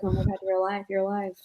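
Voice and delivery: softly repeated, half to oneself; muttering to herself. Acted. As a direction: mutter it under your breath to yourself. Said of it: "muttering to herself about how".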